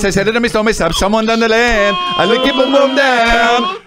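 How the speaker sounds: put-on Jamaican accent. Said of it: "what about fucking that song".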